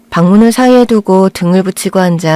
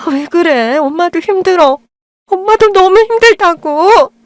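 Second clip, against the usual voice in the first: higher, slow, breaking with exhaustion; a mother at the end of her rope; worn-out mother; 10 semitones higher, slower than usual. Acted. Mother pleading with her blind daughter, exhausted and near tears.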